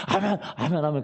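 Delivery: lightly imitated fervent amens; elder's amens. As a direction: mimic an elder chiming in with amens. 장로님 아멘을 다시 흉내. (장로님 아멘을 살짝 흉내)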